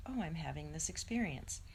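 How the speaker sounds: calm noticing. Retold or imitated. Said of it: "I'm like".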